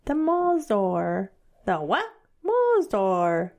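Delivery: hammed-up British accent, drawn out. Playing with how the Brits say it, British accent. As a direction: savour Mazdar in a mock British voice. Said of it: "Or as the Brits say".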